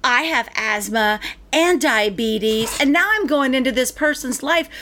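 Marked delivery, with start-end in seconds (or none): 0.0-2.8 slow, drawn-out mock cashier; imitated cashier. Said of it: "And she goes".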